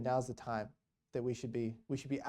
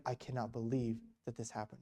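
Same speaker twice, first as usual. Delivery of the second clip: lower-key, soft retold wonder; hushed amazement; 3 semitones lower, 8 dB quieter than usual. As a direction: say it quietly, mildly overwhelmed. Retold priest overwhelmed after family call.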